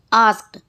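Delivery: आस्क्ड ending in a crisp T, "askt"; one syllable, आस्क्ड as "askt". Shown as a demonstration. Teacher showing written D spoken as T, आस्क्ड said "askt". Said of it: "लिखा डी हुआ है लेकिन बोला टी जाता है".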